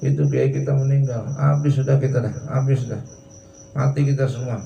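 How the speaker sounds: lightly acted lament of a crier announcing a death; half-hearted imitation of a wailing crier going round the tribes; mild mock wailing crier. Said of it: "Tapi kelilingnya gitu".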